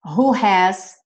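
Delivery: slow, careful English sentence; slow model reading. Shown as a demonstration. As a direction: read it slowly for learners. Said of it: "slow teacher model".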